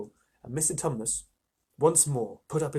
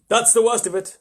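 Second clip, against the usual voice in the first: deep groan; 9 semitones higher, 10 dB louder than usual. A narrator's reading. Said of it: "with a deep groan".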